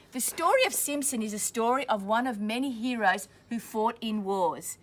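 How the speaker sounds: clear, steady storybook reading; reading to children. A narrator's reading. Teacher reading a war story to children, steady storybook voice. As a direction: read it out for the class. Reading picture book aloud to class.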